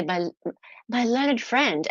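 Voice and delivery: slow, drawn-out pompous address; lightly mock a pompous lawyer, slowly; posh barrister. Mocking barristers, slow and pompous. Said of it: "they even say".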